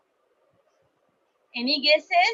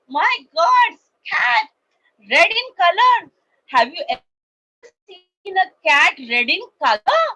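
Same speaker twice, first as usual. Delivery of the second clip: high, loud mocking voices; 7 semitones higher, 6 dB louder than usual. Friends make fun of the red cat, high mocking voices. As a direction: tease her, high and loud. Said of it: "started making fun of her".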